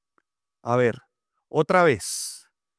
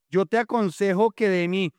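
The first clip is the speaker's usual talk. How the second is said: reading verse; 5 semitones higher than usual. Shown as a demonstration. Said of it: "A ver, otra vez".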